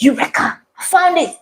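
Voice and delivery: mild mock eureka cry; a touch of a hammed-up discovery. Baker reliving her breakthrough, mild mock eureka. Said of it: "You know how you just".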